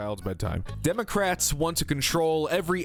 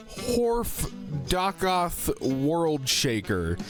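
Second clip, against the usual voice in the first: epic card announcer; 2 semitones higher, much slower than usual. Acted. Reading a card name grandly.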